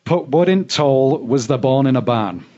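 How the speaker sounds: broad Yorkshire saying, demonstrated for a learner; best Yorkshire accent. Shown as a demonstration. Host reads the subtitled saying to guest, best Yorkshire accent. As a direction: put on your best Yorkshire. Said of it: "in my best Yorkshire accent".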